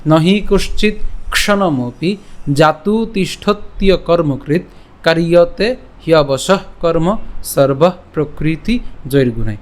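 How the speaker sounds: slow, measured shloka recitation; Sanskrit verse recitation. Shown as a demonstration. Teacher reciting today's Gita verse to the class, slow Sanskrit recitation. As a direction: recite each Sanskrit phrase deliberately, with short pauses. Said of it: "আমি আবার বলছি".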